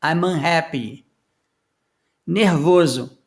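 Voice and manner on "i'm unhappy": M of "I'm" joined onto the vowel of "unhappy"; linked I'm unhappy. Shown as a demonstration. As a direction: run "I'm unhappy" together as "aimunhappy". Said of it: "tô emendando o M do I'm com essa vogal". (emendando o M do "I'm" com a vogal de "unhappy")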